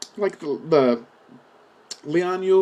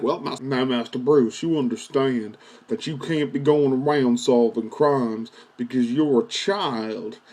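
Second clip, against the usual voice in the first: lower, slow, patient butler voice; lightly voiced lower lecturing butler; Alfred the butler; 4 semitones lower, slower than usual. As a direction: lecture the boy gently like a mild British butler. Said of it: "Why do you sound like fucking Doctor Phil?".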